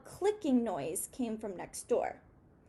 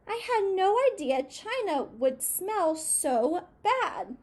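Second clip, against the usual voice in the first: disgusted; 7 semitones higher, 4 dB louder than usual. A narrator's reading. Mouse disgusted by smell.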